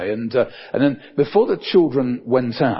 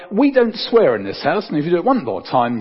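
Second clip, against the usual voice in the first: mock scolding, pitched up; parent telling off; 5 semitones higher, 3 dB louder than usual. Parent to child who swore, mock scolding. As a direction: lay down the house rule, higher.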